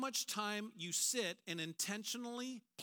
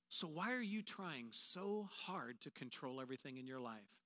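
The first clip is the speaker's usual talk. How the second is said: a lightly voiced God, soft and reassuring; preacher voicing God to anxious listeners, quiet and reassuring; God speaking; 4 dB quieter than usual. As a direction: speak as a calm, sovereign God easing fear. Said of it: "You know what God's saying?".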